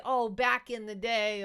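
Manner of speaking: loud, slow mock reminiscing; mock nostalgia. Cohost imitates nostalgic people, exaggerated wistfulness. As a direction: draw it out like someone pining for old times. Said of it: "how they all sound like that".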